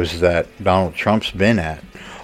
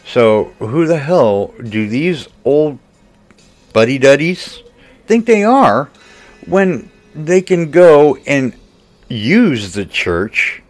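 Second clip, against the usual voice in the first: louder, higher, indignant outburst; angry rant; 6 semitones higher, 4 dB louder than usual. Real, not acted. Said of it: "I've done my rant and rave".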